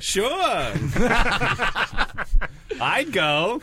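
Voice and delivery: high, loud clown voice; high Yiddish clown shout; Doctor Mindbender. Acted. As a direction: burst back into the squeaky clown character. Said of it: "thought you were Doctor Mindbender for a second".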